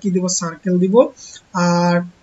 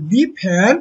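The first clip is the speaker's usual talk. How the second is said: slow read-aloud; much slower than usual. Shown as a demonstration. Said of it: "এবার কি বলতেছে".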